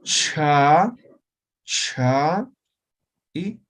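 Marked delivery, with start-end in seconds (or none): 0.0-2.5 "cha" loud with a breathy release; aspirated cha. Shown as a demonstration. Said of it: "que es palatal". ("cha" aspirada)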